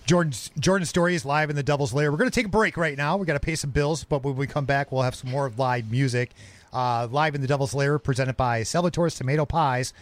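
upbeat radio host sponsor read; radio announcer. Acted. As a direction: sell it like a DJ going to break. Host reads sponsor break.

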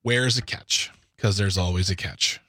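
drawn-out, probing suspicion; suspicious. Pretend. Radio co-host wary of a new bill, playfully suspicious. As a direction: question it slowly, playing up the doubt. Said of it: "You seem suspicious".

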